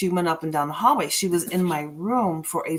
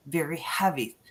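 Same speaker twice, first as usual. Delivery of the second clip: whispered, heavy and hushed; 4 dB quieter than usual. Real, not acted. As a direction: breathe it out. Describing oppressive feeling.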